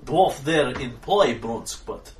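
very slow, plodding broken English; slow simple brute. Acted. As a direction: speak like a dim, gentle giant. GM voicing Brunsk, slow.

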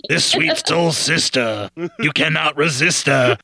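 slow, lightly put-on trailer announcer; a hint of a soulful seventies trailer narrator; movie trailer voice. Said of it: "I can't do this".

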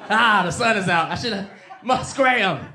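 loud, high frantic shouting; panicked shooing. Retold or imitated. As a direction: shoo her out in a panic. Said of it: "I was like".

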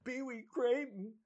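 mock amazement at a famous name; realizing who the old man is; surprised. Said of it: "And I go".

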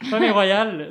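loud, emphatic, with a hint of Spanish accent; noticeable accent. Real, not acted. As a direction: punch it out, letting a slight Spanish accent show. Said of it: "On sent l'accent".

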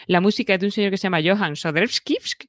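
Swedish names said in a mock Swedish accent; hammy Swedish accent on the names. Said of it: "a ver qué tal es mi acento sueco".

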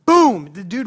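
a big booming outburst; loud exclamation. Acted. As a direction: shout the word out, sudden and loud. Sudden blowup in the story.

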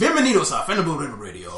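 Bienvenidos said with Spanish sounds. Shown as a demonstration. Host doing the spiel in Spanish on request, Spanish pronunciation. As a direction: welcome in Spanish announcer style. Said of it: "in Spanish".

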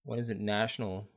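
talking while eating popcorn; words around a mouthful of popcorn; munching popcorn. Real, not acted. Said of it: "Sorry, I'm eating popcorn right now".

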